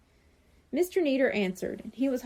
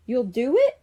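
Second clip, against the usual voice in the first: excited cry; 6 dB louder than usual. A narrator's reading. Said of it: "Bradley cried".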